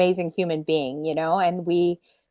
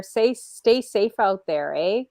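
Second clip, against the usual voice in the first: put-on light Canadian accent, slow; Canadian accent with a drawn-out eh; 3 semitones higher, slower than usual. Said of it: "I know I sound Canadian, eh?".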